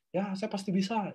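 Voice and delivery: soft, half-hearted mock affirmation; limp affirmation. Shown as a demonstration. Coach mocking how not to affirm, limp and soft. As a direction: say it weakly, with no conviction. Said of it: "Ya, lemes banget gitu".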